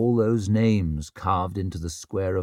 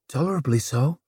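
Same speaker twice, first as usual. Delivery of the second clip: gurgled; 5 semitones higher than usual. Acted. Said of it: "he managed to gurgle out".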